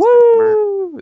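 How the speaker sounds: high loud hooting howl; werewolf howl. Acted. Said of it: "It's like an owl".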